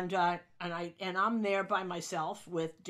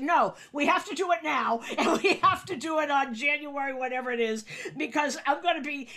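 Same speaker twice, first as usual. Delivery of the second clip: laughing through insistent words, higher and louder; 6 semitones higher, 6 dB louder than usual. Retold or imitated. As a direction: push the point while cracking up. Laughing while pressing George.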